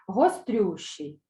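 Гострющий dragged out slowly; teacher models Гострющий for the class; very slow drill. Shown as a demonstration. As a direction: stretch every syllable of Гострющий. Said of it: "Повторюйте за мною".

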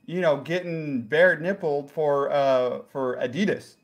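put-on light comic Jacksonville accent. Lost visitor explains himself to the host, light Jacksonville accent.

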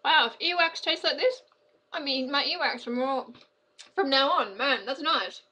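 surprised. Real, not acted. Surprised by earwax bean taste.

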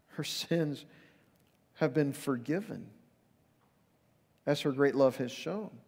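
each phrase set apart by pauses, ending on love; slow emphatic repeat. Shown as a demonstration. Preacher repeats Jesus' words slowly for the congregation. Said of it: "her many sins have been forgiven".

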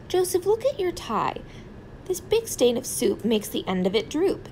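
a mother fussing over a worn-out blanket; scolding mother. Acted. Mother scolding about tie.

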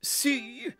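loud, crowing I-told-you-so; shouting cockerel. A narrator's reading. Cockerel jeers at the downcast breeze, shouting. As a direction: shout it with gloating scorn. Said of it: "Coco shouted".

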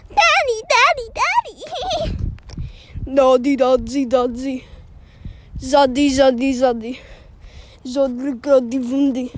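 hammed-up Russian accent on Daddy; mock Russian drawl, stretched slow; Russian impression. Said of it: "That was my impression of a Russian".

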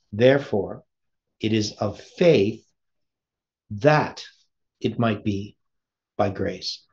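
slow, each phrase set apart with pauses; said slowly. Shown as a demonstration. Preacher slowing down so the congregation follows. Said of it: "I will say it slowly".

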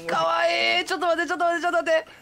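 put-on high cute lisping anime girl; gap-toothed moe voice. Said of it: "歯抜け萌え声得意やからな".

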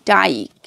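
ডাইক with a drawn-out "ai" glide; demonstrated pronunciation. Shown as a demonstration. Teacher showing Y with final e, ডাইক modelled with drawn-out "ai". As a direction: stretch the long "i" in ডাইক. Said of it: "এই ধরনের উচ্চারণ হবে".

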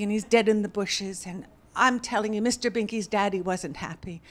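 ordinary delivery

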